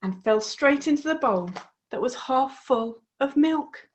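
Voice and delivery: put-on lively storybook voice for young listeners; reading to children. A narrator's reading. A host reading the frog story to children, lively. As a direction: tell the frog tale with bright expression.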